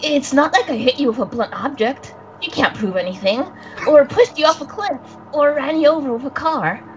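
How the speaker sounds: lightly voiced boy, defensive and self-incriminating; a hint of a guilty kid talking too much; young boy character. Friend voicing the spirit boy denying it, lightly defensive. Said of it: "Coco, please, please take it away".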